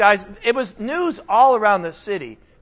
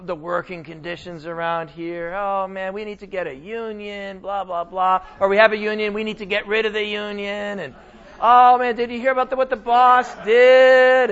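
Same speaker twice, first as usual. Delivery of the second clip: lightly voiced office whiner; mild mock gripe about work; mock complaining. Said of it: "Us who complain".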